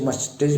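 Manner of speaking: मस्टेज ending in a j sound; common mispronunciation. Shown as a demonstration. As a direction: end मस्टेज on j instead of s. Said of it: "ये मस्टेज नहीं".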